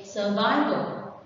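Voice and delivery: "survival" stressed on -VI-; surVIval, as a teacher models it; stress on second syllable. Shown as a demonstration. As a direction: lean on the middle syllable of "survival". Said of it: "the stress is on the second".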